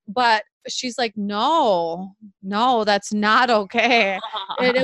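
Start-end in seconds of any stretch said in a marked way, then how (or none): 1.2-4.2 slow, drawn-out protest, a bit louder; retold child's refusal. Daughter refuses mother's comfort about the divorce, mildly insistent protest. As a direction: lightly imitate an upset child refusing.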